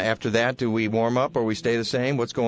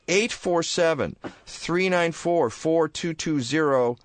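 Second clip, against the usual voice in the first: "Eight four seven, three nine four, four two two zero" slow, each digit spaced and raised; slow, deliberate number; 7 semitones higher, slower than usual. Shown as a demonstration. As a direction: spell the number out slowly for listeners. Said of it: "first read of number".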